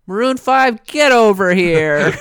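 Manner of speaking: loud, drawn-out call across the party; mock summons. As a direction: shout for the band like a proud dad. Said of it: "so he just went".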